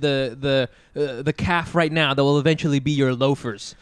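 a hint of a leisurely Italian cobbler; Italian shoe cobbler. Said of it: "like Italian shoe cobbler who's like".

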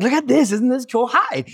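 put-on high, delighted child voice; cheerful little kid. Son greets monsters cheerfully.

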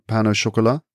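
pain au chocolat with a light French accent on the end; English-French mix, not full French on chocolat; slight French ending. Shown as a demonstration. Answering how to say it to a British person, slight French ending. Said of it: "a little bit of a, an accent on the end".

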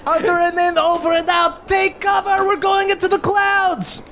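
high, urgent goblin voice; clipped radio sign-off then warning; goblin captain signing off. Acted. Ma Goblin signs off to party, high urgent voice.

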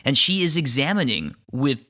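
deliberate descriptive storytelling; game master narration. Acted. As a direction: describe the creature unhurriedly, pausing on details.

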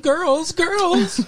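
high-pitched mock scolding call; playful calling out. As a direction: break up a squabble in jest. Playfully calls out to feuding girls.

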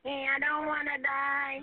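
slow, broken sob; sobbing. Real, not acted. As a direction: choke the words out crying. Caller breaking down.

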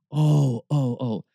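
hammed-up moaning "oh"s, sinking in pitch; mock woeful moan. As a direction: groan as if overwhelmed, for show. Mimes groaning over daily burdens.

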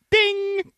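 high sung ding like a bell; mock ding. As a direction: chime it out like a bell. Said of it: "you should get a ding on there".

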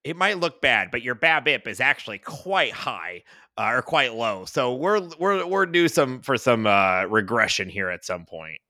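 lightly voiced stats-nerd coach, slightly hesitant; mildly hammed-up version of yourself coaching; self-parody coach. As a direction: imitate yourself explaining stats to kids. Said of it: "that's my impression of me".

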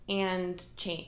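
and cha- broken off mid-word; tongue-tied stumble. Real, not acted. Host tripping over a word while recording her podcast, broken-off stumble. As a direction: trip over "cha-" and stop short. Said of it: "See, can't speak today".

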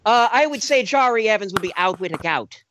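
put-on joking Irish accent. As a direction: keep the Irish brogue going. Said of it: "He doesn't have the Irish accent".

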